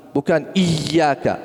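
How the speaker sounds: iyyaka with a long drawn final a, shown as the wrong way; slow wrong example. Shown as a demonstration. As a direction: stretch iyyaka slowly to show the mistake. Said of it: "Ah, salah". (iyyaka dibaca panjang, contoh yang salah)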